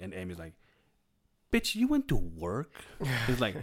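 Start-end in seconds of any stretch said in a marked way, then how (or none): 1.5-2.7 slow, incredulous question, a little higher; aghast that she went to work; drawn-out disbelieving quote; shocked disbelief. Retold or imitated. Friend retelling shocked reaction.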